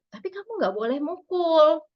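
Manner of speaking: mother setting a limit calmly, after validating; firm but gentle, the right order; calm parent limit. Shown as a demonstration. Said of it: "Ngomongnya tuh urutannya seperti itu".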